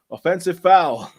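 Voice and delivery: slow, loud mock referee announcement; booming it out like a ref on the mic; referee mic call, chesty. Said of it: "he says it, you know, with chest on the mic".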